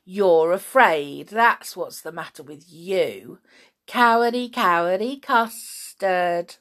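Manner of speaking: mocking schoolboy taunt. Boy taunting Tom and John.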